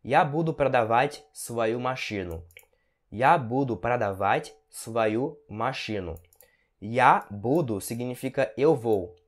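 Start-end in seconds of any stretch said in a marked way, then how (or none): 3.1-6.2 slow, word groups set apart by pauses; slow teaching repeat. Shown as a demonstration. Teacher repeats a car-selling example for students, slow and separated. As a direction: take it slowly so learners can follow.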